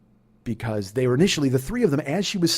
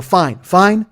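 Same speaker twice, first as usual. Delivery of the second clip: loud, higher, punched repetition; exasperated acceptance; 6 semitones higher, 10 dB louder than usual. Retold or imitated. Driver cuts off man's apologies, loud exasperation. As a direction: cut off the apology impatiently.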